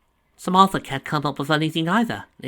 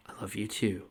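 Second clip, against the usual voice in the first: unvoiced, softer whisper; 3 semitones lower, 9 dB quieter than usual. A narrator's reading. Donovan whispering his love back to Nadia.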